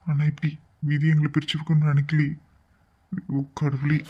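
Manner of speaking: regretful, tearful confession; tearful grief. Acted. Grieving man regrets quarrelling with her, tearful. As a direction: lament as if on the verge of tears. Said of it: "ரெண்டு பேரும் இப்படி அழுதுட்டே இருந்தீங்கன்னா".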